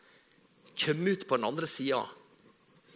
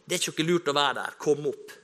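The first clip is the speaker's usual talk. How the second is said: mock calling down; 4 dB louder than usual. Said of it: "står og roper ned i kjelleren".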